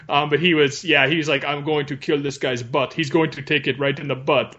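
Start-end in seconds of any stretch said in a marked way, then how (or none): 1.4-4.5 lightly put-on Indian accent; imitated Indian accent. Retelling the robot driver's taunts, lightly imitated Indian accent. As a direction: mimic a gamer with a hint of Indian accent. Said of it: "I like to imagine him being Indian".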